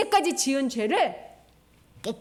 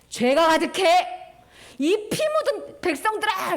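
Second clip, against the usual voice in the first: angry God; 4 semitones higher, 3 dB louder than usual. Acted. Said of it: "화를 내신 거예요".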